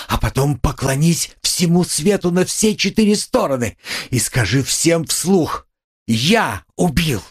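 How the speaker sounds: fervent urging. A narrator's reading. Sonya commanding Raskolnikov to confess, fervent urging. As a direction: urge him on with fiery conviction.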